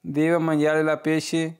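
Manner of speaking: very slow, each syllable clear; slow model sentence. Shown as a demonstration. Teacher reading the Italian phrase for students, very slow. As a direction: read it out slowly for learners to repeat. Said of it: "आप किसी को इस तरह बता सकते हैं".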